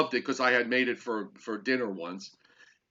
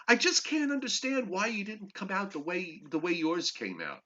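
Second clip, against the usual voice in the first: mimicking the wife; 5 semitones higher, 4 dB quieter than usual. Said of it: "had the audacity to say to me".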